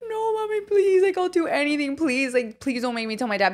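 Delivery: crying plea to mom; beg, voice breaking high; tearful begging, mommy please; pleading. Retold or imitated. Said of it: "And I was like".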